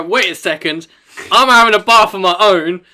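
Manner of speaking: assertive demand. Pretend. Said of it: "You go".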